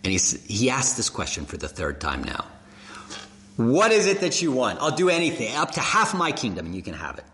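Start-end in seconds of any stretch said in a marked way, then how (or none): 3.5-7.2 king's offer. Acted. King asks Esther third time.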